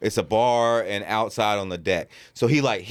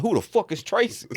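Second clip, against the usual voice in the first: high-pitched, exasperated imitation; mock indignation; 12 semitones higher than usual. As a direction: act out a riled-up drunk guy's disbelief. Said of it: "he was getting so mad".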